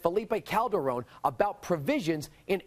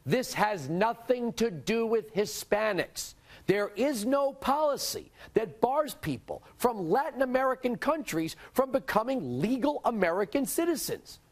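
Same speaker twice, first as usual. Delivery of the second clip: emphatic, higher-pitched declaration; pitched-up, clearly stressed statement; loud and clear; 4 semitones higher than usual. Real, not acted. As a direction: spell it out firmly for everyone. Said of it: "say this loud and clear".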